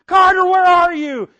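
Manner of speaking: put-on frantic high shout for a lost child; panicked dad shouting his son's name; yelling a name. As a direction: call out desperately across the yard. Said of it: "I'm yelling".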